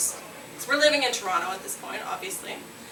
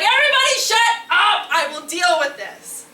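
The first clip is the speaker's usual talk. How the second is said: louder and higher, bossy; commanding inner voice; 8 semitones higher, 6 dB louder than usual. Retold or imitated. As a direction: take charge and silence the others. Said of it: "a third voice who's like".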